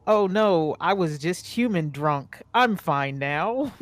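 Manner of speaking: hammed-up drunk excuse; a touch of tipsy cheer, slow at the end; mock drunk. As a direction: pretend the lady was just drunk. Character faking tipsy recovery.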